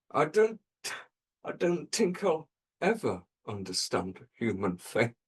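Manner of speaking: lightly voiced mad professor, lost in thought; halting start, as if staring into the distance; vacant professor. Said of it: "he just stared vacantly into the distance".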